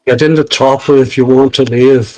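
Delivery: lightly voiced Terminator line, mostly own voice; a hint of Arnold's movie growl; Arnold Schwarzenegger impression. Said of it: "can pull off a pretty good Arnold Schwarzenegger impersonation".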